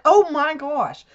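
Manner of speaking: shocked gasp. Retold or imitated. Seeing husband's deep thumb gash.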